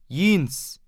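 put-on high desperate shriek of a dying old woman; shrieking cry. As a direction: scream the name out like a cry for help. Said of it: "Und kreischend, wie ein Notschrei".

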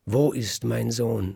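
put-on a mother waking to find her baby gone, crying out; frantic cry. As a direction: call out for the missing child in alarm. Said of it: "schreit die Bäckerin".

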